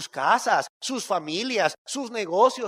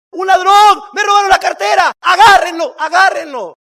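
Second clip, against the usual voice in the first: a robbed man yelling for the thief to be caught, much higher and louder; shouting at full voice; 11 semitones higher, 16 dB louder than usual. Retold or imitated. Robbed man yells after thief in the pedestrian street, full-voiced shout. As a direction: scream it down the street. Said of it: "a todo lo que le da su voz".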